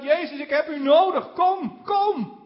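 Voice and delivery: rising, urgent call to Jesus. Retold or imitated. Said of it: "hij gaat nog harder roepen".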